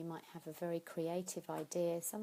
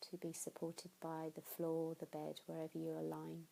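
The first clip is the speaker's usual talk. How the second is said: guided meditation. Acted. Teacher guides listeners through tensing and releasing, calm meditation voice. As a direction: lead the body scan gently and evenly.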